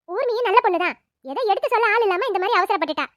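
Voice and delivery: firm consoling. Acted. Elder woman consoling family.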